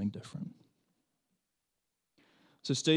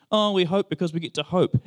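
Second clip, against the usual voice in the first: mock airy hope; 6 semitones higher, 7 dB louder than usual. Mocking a vague hopeful attitude.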